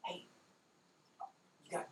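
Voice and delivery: high, half whispered goblin voice; lightly voiced goblin matriarch, hushed; female goblin. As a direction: coax them softly like a nervous goblin. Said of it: "what sounded like the female goblin".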